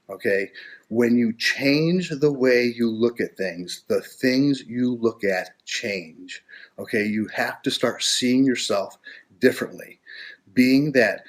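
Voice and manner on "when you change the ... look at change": slow emphatic repeat. Shown as a demonstration. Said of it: "You know, the expression".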